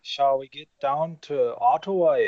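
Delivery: a bad, hammed-up Canadian accent; half-hearted mock Canadian; awful Canadian accent. Joking with friends about Ottawa, bad Canadian accent. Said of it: "That's an awful Canadian accent".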